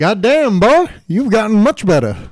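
high raspy put-on crab boss, loud; Mr. Krabs voice. Friend retelling the cartoon, doing Mr. Krabs praising the cook. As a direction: gush like a proud boss. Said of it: "He's like".

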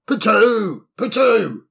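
calls a name through the door; summoning a servant; calling out. Acted.

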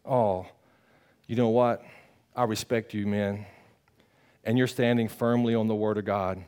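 understated contrite confession; humble reply. Acted. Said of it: "he could be like".

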